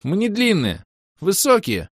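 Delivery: an elf objects about his ears, high and indignant; indignant squeaky voice. Acted. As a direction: squeak out the protest. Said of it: "возмущённым писклявым голосом".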